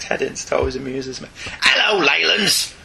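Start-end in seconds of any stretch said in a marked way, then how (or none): 1.6-2.7 put-on Cockney accent. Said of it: "in a bloody authentic British accent".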